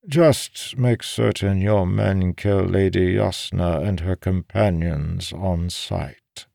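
name the deadly price slowly and evenly; measured, unhurried killing order; old schemer's demand. Acted. Voices Balanmar naming his price.

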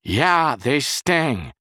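loud, high shout back; yelled reply. A narrator's reading. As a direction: holler back from the shower. Yelling back from the shower.

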